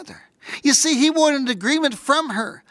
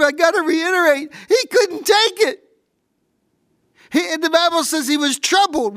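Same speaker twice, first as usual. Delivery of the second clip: preaching at full force; 5 semitones higher than usual. Acted. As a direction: pour it out from the pulpit with rising fervour.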